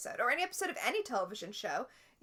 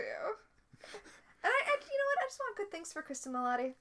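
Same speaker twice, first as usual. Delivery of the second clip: excited; 9 semitones higher than usual. Real, not acted. Gushing over the actress.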